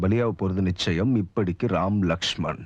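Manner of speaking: very low, slow sign-off; bass-voice letter reading. Acted. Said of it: "பேஸ் வாய்ஸ்ல letter படிக்கிறதுல".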